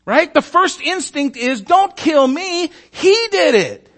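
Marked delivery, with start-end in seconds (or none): 1.6-3.9 much higher, slow, laughing mock terror; a sailor frantically pointing the finger; mock panic. Panicked sailor blames Jonah.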